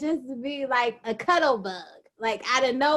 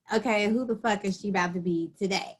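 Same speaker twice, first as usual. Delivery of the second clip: mock suspicion; 3 semitones lower, 3 dB quieter, much faster than usual. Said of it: "it would be like".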